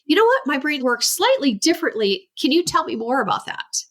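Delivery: a lightly voiced upbeat parent asking gently; encouraging parent. Parent inviting the child to explain, lightly upbeat. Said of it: "Or you could say".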